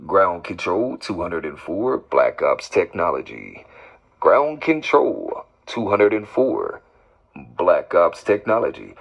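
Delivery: announcing a call sign on air; firm CB call sign; radio call sign. Real, not acted.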